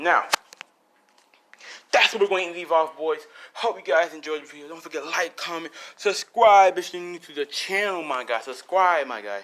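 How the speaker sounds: loud, punchy sign-off; YouTube outro. Real, not acted. Host signing off the video, loud outro. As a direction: project it to the subscribers.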